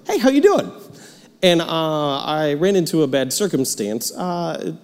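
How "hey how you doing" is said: bright, high, bouncy hello; cheerful greeting. Shown as a demonstration. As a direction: greet everyone like a cheerful guy. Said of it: "I ask it pretty cheerfully".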